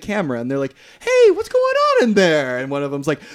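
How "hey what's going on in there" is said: very high, drawn-out singsong call; mock calling out. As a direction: imitate a girl hollering slowly to the audience. A girl group calling out to cinema audience.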